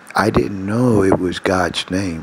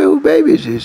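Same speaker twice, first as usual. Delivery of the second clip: retold surprise; 4 dB louder, faster than usual. Wife questioned about baby.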